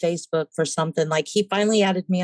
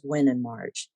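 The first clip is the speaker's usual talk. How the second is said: low man voice; 6 semitones lower, 4 dB quieter than usual. Retold or imitated. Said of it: "And he goes".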